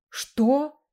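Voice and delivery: astonished. A narrator's reading. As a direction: react in disbelief. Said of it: "изумился Леру".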